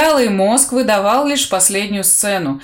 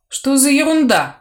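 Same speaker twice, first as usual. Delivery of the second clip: slurred croak; 4 semitones higher than usual. Acted. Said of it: "невнятно прокряпел".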